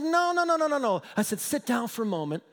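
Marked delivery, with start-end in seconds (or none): 0.0-1.0 high, run-on string of refusals; retold hasty objection. Young pastor stops the angry husband, high placating objection. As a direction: cut in to placate, pitched high.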